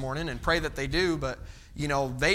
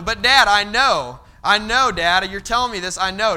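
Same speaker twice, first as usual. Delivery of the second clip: put-on loud, pleading kid protest; protesting son; 3 semitones higher, 7 dB louder than usual. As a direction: insist loudly like a stubborn boy. Son protesting dad, retold.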